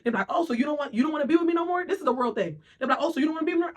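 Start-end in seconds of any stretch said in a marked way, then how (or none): 0.3-1.8 mock hurt partner. Imitating the partner picking fights. 3.0-3.7 mock hurt partner. Imitating the partner picking fights.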